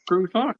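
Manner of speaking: croissant said the French way, krew-SAHN; croissant with a French r and a nasal final vowel, no t; French pronunciation. Shown as a demonstration. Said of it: "I get told here in America I'm saying it wrong".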